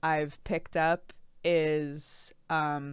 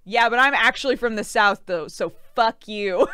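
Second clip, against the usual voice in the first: louder, defiant retort; mock indignation; 7 dB louder than usual. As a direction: push it out like a proud comeback. Acting out indignant Southerners.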